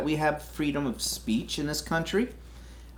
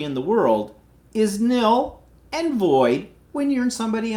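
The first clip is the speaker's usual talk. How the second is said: raised, heated lecture to foreigners; angry rant; 5 semitones higher than usual. Real, not acted. To American drivers, a real angry scolding. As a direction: scold them, voice pitched higher. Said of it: "'cause I'm pissed off right now".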